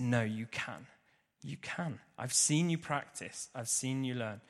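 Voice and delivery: calm encouragement. Retold or imitated. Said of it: "really, really calm, collected".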